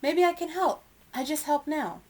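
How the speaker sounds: put-on high, loud, insistent young voice; determined child. A narrator's reading. Young elephant arguing she can help, high and determined. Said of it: "in her most determined voice".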